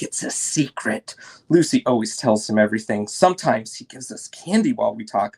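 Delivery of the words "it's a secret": whispered like a secret; hushed secret whisper, breath only. A narrator's reading. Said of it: "He'll whisper like".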